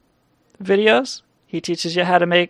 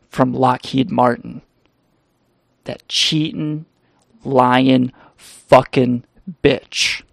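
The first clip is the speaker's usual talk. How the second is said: edgy Paul Rust impression. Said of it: "This is my edgy Paul Rust impression".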